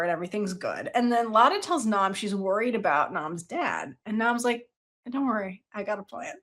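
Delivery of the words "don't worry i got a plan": smug scheming. Retold or imitated. Nam voiced, scheming.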